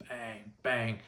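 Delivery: drawn-out mock clang; imitated pipe banging. Imitating a wrench on a basement pipe, drawn-out mock bang. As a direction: stretch the word like a ringing pipe, without real force. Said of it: "like, banging pipe in the basement".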